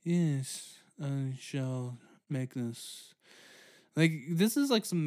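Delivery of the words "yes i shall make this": mock Shakespeare. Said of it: "It was like".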